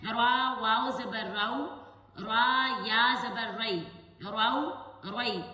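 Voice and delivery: را, رو and رئی with a full, heavy R, slow. Shown as a demonstration. Teacher showing students a heavy را with zabar. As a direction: fill the mouth on رو and رئی. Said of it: "زبر آ جائے تو اس کو بھی پور پڑھا جاتا ہے".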